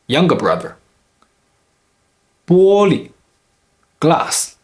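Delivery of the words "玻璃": 玻璃 with 玻 high and level, 璃 brief and light; neutral tone ending. Shown as a demonstration. Teacher demonstrating neutral tone, 玻璃 ending short and light. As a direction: hold 玻 high, then barely touch 璃. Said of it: "second syllable is with a neutral tone".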